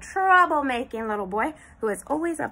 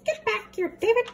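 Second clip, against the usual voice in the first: mom calling out; 10 semitones higher, faster than usual. Acted. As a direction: call after the runaway boy. Mama chasing David.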